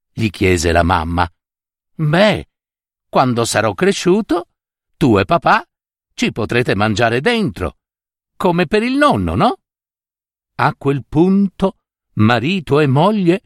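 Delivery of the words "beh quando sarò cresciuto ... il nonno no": put-on higher, childlike little boy voice; a young boy lightly played, higher; small child voice. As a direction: voice the grandson innocently, pitched up. Grandson explains to his mother.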